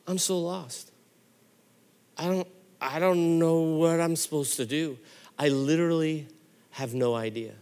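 crying. Retold or imitated. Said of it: "I just start crying".

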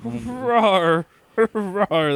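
playful growled rawr, lightly done; a hint of a growling beast cat; Sabretooth roar. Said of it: "That's my impersonation of a Sabretooth".

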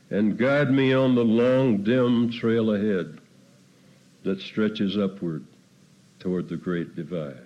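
solemn, prayerful poem recital; cowboy poetry. Acted. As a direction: recite it as a lonely cowboy's prayer under the stars. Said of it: "you can picture the lonely cowboy".

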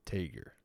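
Tager as "TAY-ger"; long a and hard g in Tager; trying a pronunciation. Shown as a demonstration. Host settling on a model's surname, trying a pronunciation.

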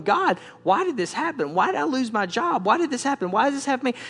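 aggrieved run of whys; complaining to God. Acted. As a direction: protest upward like a wronged believer.

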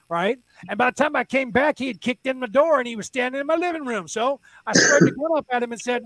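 lightly voiced old lady telling her tale; little old lady. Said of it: "some little old lady".

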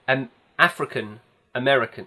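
"African", then "American" set apart; weight on "African", a beat before "American"; two separate words. Shown as a demonstration. Distinguishing nationality from ethnicity.

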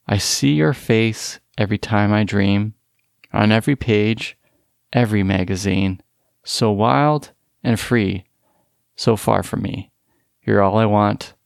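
hint of an English teacher reciting a poem; mock English teacher reading. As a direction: read the lyrics out like a stern teacher, only lightly put on. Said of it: "I'm gonna read this out loud in my best, uh, English teacher voice".

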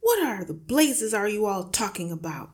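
exasperated father demanding sense; indignant yell. A narrator's reading. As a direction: yell at the whole family in annoyance. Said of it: "the father yelled".

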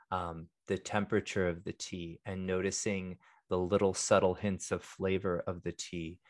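calm and hushed, like a meditation guide; soft monk voice. Real, not acted. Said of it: "our monk voice, our soft speak voice".

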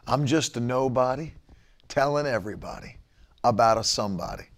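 low, soft mocking sing-song; mock-pious murmur; mock slogan. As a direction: mimic a smug bio line, softly. Mocking slogan again, faster.

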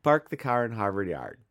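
Midwestern accent with every R sounded. Shown as a demonstration. Host shows off his speech on request, Midwestern accent. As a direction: lean on the R's, Midwestern style. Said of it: "that is my Midwestern accent".

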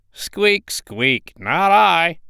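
high squeaky rat refusing; rat's high squeak and quick no. Acted. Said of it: "the rat said".

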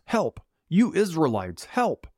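hammed-up alarm at storytelling volume; mock mob yell. A narrator's reading. Mob accusing Paul in the temple, mock yelling. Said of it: "started yelling at the top of their lungs".

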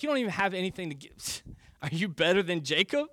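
quick scoffing sarcasm, rising at the end; sarcastic. Acted. Worn-out Samaritan woman scoffing at Jesus's offer, sarcastic. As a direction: toss it back as an incredulous jab. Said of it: "is to go towards sarcasm".

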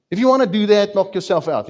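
loud mock shrug, knock yourself out; dismissive. Preacher voicing a dismissive offended man, loud and scornful. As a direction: toss it off loudly, who cares.

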